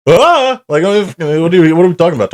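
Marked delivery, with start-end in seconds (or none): 0.1-0.6 short high, louder mock woodpecker shriek; quick cartoon woodpecker squawk, much higher; Woody Woodpecker cry. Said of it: "sounding like Woody the Woodpecker".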